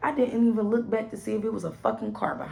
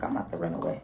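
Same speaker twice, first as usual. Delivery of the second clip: whispered; 7 dB quieter, much faster than usual. Retold or imitated. Secretly thinking of running.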